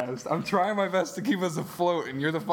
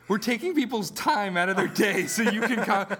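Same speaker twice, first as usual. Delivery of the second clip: laughing; 5 semitones higher, 4 dB louder than usual. Real, not acted. Laughing while scolding friend.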